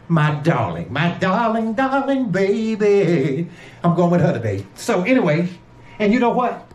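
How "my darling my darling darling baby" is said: drawn-out darling. Pretend. Doting on wife, drawn out.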